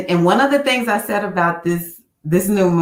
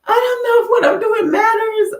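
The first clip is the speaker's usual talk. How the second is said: doubtful; 3 dB louder than usual. Retold or imitated. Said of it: "I was like".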